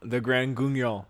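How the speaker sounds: Grand Guignol said the French way, ending in "nyol"; French pronunciation. Shown as a demonstration. Explaining the French name to a co-host, Guignol as "goon-yol". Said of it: "I'm pronouncing that correctly".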